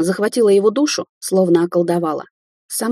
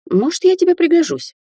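shuddering offer; 12 semitones higher than usual. Acted. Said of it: "с содроганием предложил Андрей".

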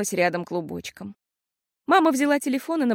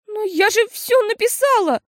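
much higher, louder, horrified protest; 13 semitones higher, 6 dB louder than usual. A narrator's reading. Girl horrified that her exam is missing. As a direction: cry out in horror. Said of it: "Теперь в ужас пришла Фиасоль".

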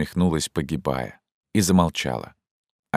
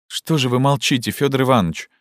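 put-on agitated young woman; 8 semitones higher than usual. Zhenya confronts Fyodor Ivanovich about the order, urgently. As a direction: voice raised higher, urgent and pleading.

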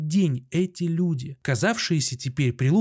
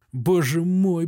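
first lament, only slightly raised; plain lament; 3 semitones higher, slower than usual. A narrator's reading. Doctor in the ward begins to lament, mild plaint. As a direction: say it once, still holding together. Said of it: "таким тоном, как будто хотел заплакать".

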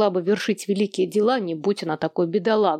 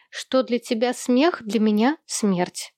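mock tragic; slower than usual. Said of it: "Луи просила передать".

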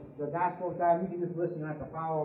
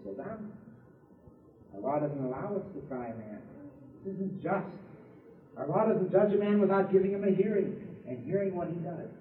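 quiet objection; 4 semitones lower, 6 dB quieter than usual. Acted.

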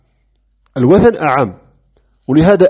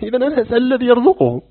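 laughing; 10 semitones higher, faster than usual. Retold or imitated. Punchline retold with laughter.

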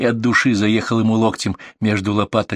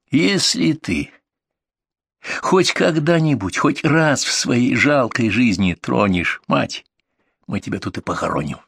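hissing threat; 3 semitones higher than usual. A narrator's reading. Seryoga threatening the abuser in a hissing voice. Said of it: "шипящим голосом".

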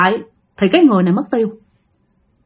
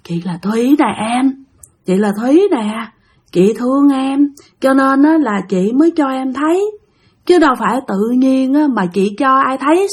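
possessed eerie voice; 3 semitones higher than usual. Retold or imitated. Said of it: "Mà cái anh này cứ nói vậy đó".

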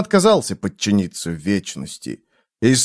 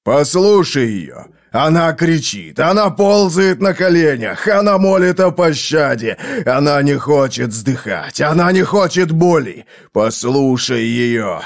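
urgent insistence; 2 semitones higher than usual. Acted. Urging to hear her pleas.

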